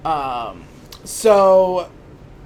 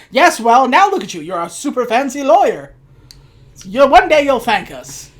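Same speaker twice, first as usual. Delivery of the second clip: louder, raised-pitch parent brushing off a complaint; mock defensive parent; 4 semitones higher, 5 dB louder than usual. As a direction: imitate a parent insisting, voice pushed up. Parents voiced in movie retelling.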